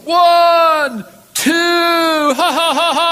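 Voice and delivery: loud jeering count with laughter; mocking laughter. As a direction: count out the steps while cackling in scorn. Crowd mocks the apostle, laughing.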